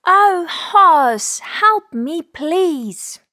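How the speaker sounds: high, plaintive rabbit voice; pleading little rabbit. Acted. Rabbit begs horse for help.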